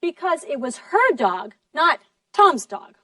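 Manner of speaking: "her" set against "Tom's", both stressed; contrastive stress on HER. Shown as a demonstration. Teacher explains whose dog, contrasting "her" and "Tom's". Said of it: "you stress her".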